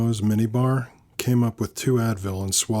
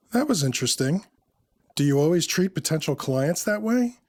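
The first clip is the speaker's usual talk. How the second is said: higher-pitched woman's voice, questioning; Samantha's character voice; 7 semitones higher than usual. A narrator's reading. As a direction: lift the voice into her probing question.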